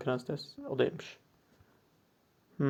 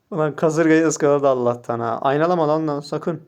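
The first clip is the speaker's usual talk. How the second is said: excited; 6 dB louder than usual. Real, not acted. Tense moment, opponent might mirror.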